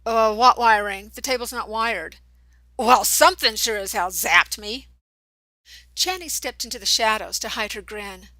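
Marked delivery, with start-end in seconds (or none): 0.1-4.9 heated back-and-forth. A narrator's reading. Boys arguing about shock.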